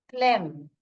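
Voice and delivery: फ्लेम said as "flem", no p sound; फ्लेम with the p left silent, ending on a clear "flem". Shown as a demonstration. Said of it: "पी silent है".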